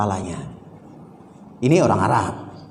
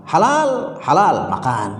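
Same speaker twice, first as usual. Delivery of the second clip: high, drawn-out call of halal by a date seller; mock seller call; 3 semitones higher, slower than usual. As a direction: call it out high like a market trader. Arab seller inviting to taste dates.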